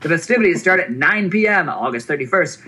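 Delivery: high, excited carnival barker pitch; hype voice. Acted. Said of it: "use a hype voice".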